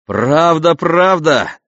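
loud, high delighted exclamation; excited. A narrator's reading. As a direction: burst out with joy. Cadmus delighted with cow. (радостный возглас)

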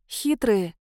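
ordinary delivery, nothing marked

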